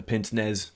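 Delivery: PINCE-NEZ said as "pints-nezz", Z sounded; mistaken anglicised pronunciation. Shown as a demonstration. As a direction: say pince-nez as spelt in English. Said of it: "I was calling it the".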